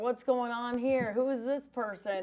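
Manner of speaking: slow, puzzled mock reporter; clueless reporter voice. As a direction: drawl it like a lost newcomer. Voices clueless media at event.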